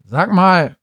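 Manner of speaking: loud, high call to wake someone; richiamo concitato. Acted. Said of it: "rief er".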